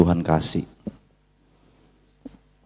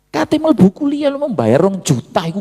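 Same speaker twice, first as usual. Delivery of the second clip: father's pleading prayer; 11 semitones higher than usual. Retold or imitated. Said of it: "Papa saya menangis".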